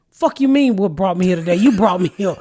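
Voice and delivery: imitating her furious reply, laughing at the end; mock outraged retort; retold angry comeback. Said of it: "that made me so mad with him".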